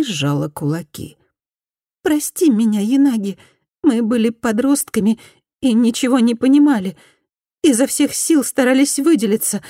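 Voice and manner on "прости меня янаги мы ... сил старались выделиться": higher, pleading former bully; repentant woman. Acted. Former bully apologises to Fumi, higher pleading voice. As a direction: beg forgiveness in a higher voice.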